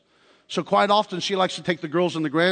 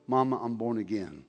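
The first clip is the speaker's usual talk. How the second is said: soft tender quote; 8 semitones lower, 6 dB quieter than usual. Retold or imitated. Son telling his mother.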